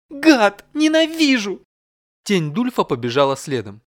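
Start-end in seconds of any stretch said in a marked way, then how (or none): 0.1-1.6 very high, loud angry scream; furious outburst. Acted. Yulia yelling at her teasing husband as she leaves, very high and loud. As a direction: spit it at him as she storms off.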